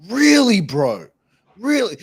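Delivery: exasperated really bro; incredulous. Retold or imitated. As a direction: scoff at them in disbelief. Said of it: "And it's like".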